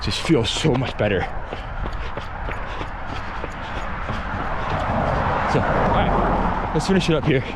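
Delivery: talking mid-run, between breaths; while running. Real, not acted. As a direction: speak as if jogging on hills. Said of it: "taking some rolling hills".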